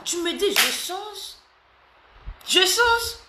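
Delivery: a fan-pleaser's high excited vow; eager high promise. Real, not acted. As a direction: pitch shoots way up, eager to please.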